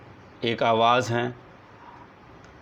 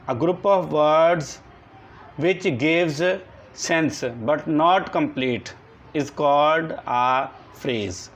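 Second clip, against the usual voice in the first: very slow, word by word, for copying down; slow dictation; much slower than usual. Shown as a demonstration. Teacher dictating a definition to the class, slow and deliberate. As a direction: dictate each word so the class can write it.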